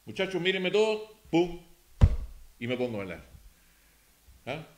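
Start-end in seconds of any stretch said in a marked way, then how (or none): 0.0-1.6 commanding call. Shown as a demonstration. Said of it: "Ahora voy a hablar yo".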